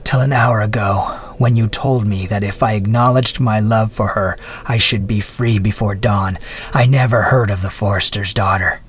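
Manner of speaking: contemptuous. Acted. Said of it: "replied the prisoner contemptuously".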